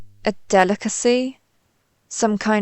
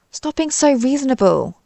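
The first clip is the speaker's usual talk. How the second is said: higher-pitched, falling exasperated protest; frustrated plea, pitched up then dropping; 4 semitones higher than usual. Acted. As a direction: complain in exasperation. Invader thwarted by calm human.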